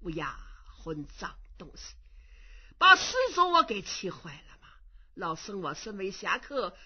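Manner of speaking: a lightly voiced crafty old man, bragging; boastful old monk. Impostor Kong Xiu bragging about speaking every dialect. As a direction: bluster your way out.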